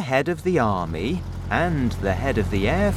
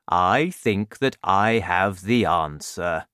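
a hint of a slow, gentle giant; kindly giant; slower than usual. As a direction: talk it through slowly like a friendly giant. BFG voiced in story.

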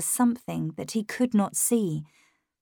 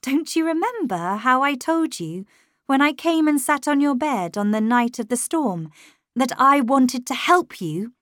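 mildly agitated, higher plea; voice shaking; 6 semitones higher, 4 dB louder than usual. A narrator's reading. Governess pleading with Miles, voice shaking a little. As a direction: appeal urgently, pitched up. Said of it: "My voice was shaking as I continued".

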